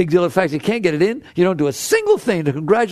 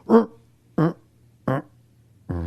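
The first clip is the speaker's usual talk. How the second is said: engine failing to start; faster than usual. Retold or imitated. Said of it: "and had it go".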